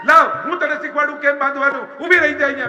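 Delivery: put-on child scolding the bride, high and loud; mock scolding. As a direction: tease her as you pretend to scold. Krishna mock-scolds the new bride.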